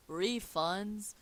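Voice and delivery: half-hearted cry of alarm; shouting. Acted. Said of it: "he shouts".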